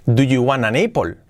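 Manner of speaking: apple dicho con e española; inglés a la española. Retold or imitated. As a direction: como lo diría un hispano. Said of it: "si en tu cerebro tenías". (inglés con acento español)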